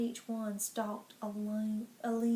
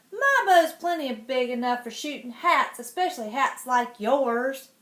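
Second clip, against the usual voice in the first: put-on bratty child duke; 7 dB louder than usual. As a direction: sneer it like a spoiled boy duke. Duke boasting back.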